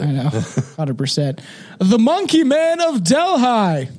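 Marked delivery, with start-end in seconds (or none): 1.8-3.9 put-on slow, higher British accent; a put-on British accent for the topic. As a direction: announce it like a posh Brit. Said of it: "I did a British accent".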